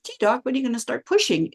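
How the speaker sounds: lightly voiced inner question to the doctor. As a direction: voice your impatient private thought quickly. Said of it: "is my inside voice again".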